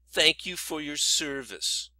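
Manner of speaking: slow, drawn-out mock thanks; mimicked TV host. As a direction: lightly parody a host's stock phrase. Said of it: "the host or whatever always says".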